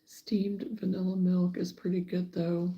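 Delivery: soft unvoiced whisper. Real, not acted. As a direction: whisper it under your breath. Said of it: "unvoiced whisper".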